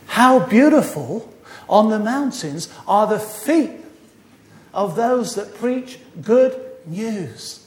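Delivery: slow, deliberate verse recital; scripture recitation. Acted. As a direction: give the verse out slowly, phrase by phrase. Recites Bible verse from memory.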